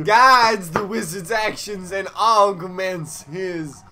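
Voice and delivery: southern drawl. Acted. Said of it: "sound like a southern lawyer".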